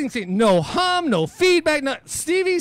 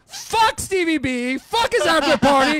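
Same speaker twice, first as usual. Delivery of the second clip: angry rant; 5 semitones higher, 3 dB louder than usual. Retold or imitated. Angry rant about after party.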